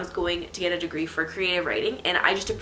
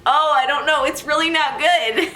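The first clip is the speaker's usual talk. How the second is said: exasperated; 7 semitones higher, 7 dB louder than usual. Real, not acted. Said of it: "exasperated rant".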